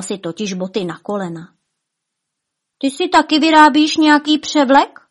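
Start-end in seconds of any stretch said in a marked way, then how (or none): 2.8-5.0 high, loud, eager question; curious. A narrator's reading. Špuntík asks the giant about his costume, curious. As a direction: ask with lively curiosity, pitched up. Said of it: "optal se zvědavě Špuntík".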